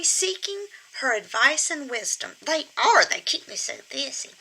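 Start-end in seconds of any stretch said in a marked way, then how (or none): 2.4-4.3 squeaky ventriloquist dummy. Pretend. Puppet boasts of being busy.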